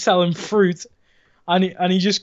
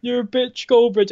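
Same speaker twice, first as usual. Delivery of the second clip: put-on kid's taunt; 5 semitones higher than usual. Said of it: "and he goes".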